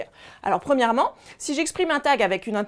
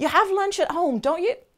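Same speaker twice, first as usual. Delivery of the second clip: rising tune on the tag "don't you"; 7 semitones higher than usual. Asking for confirmation with an english tag: rising pitch on don't you. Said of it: "si tu utilises une intonation montante".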